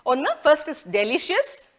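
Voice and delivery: slowly spelled-out teacher read; slow careful word list; slow clear teaching. Shown as a demonstration. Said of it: "നമുക്ക് ഒന്നും കൂടെ നോക്കാം".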